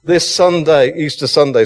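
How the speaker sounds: building passion in the pulpit; excited preaching. Real, not acted. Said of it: "I'm getting so excited".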